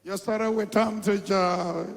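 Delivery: slow mock Michigan accent, "joy" drawn out; put-on American accent from Michigan; imitated Michigan accent. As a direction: mimic the Michigan accent slowly. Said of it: "Say it in Michigan accent".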